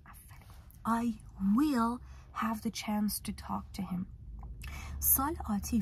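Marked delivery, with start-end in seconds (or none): 0.9-4.1 slow model sentence. Shown as a demonstration. Teacher models English example.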